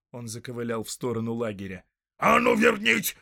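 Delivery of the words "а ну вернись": loud, high orc yell; shouted order. Acted. Soldier yelling at the departing tracker, loud and high. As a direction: yell him back. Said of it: "крикнул воин".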